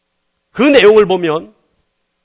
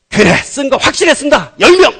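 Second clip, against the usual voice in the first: high, loud mock-exasperated yes; emphatic concession; 7 semitones higher, 5 dB louder than usual. Preacher acting God granting the last ten, emphatic concession. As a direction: give in with a flourish.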